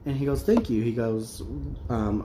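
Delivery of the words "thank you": much higher, louder mock thank-you; imitating a flattered gym guy; pleased thanks. Gym guy thanking her for the compliment, flattered.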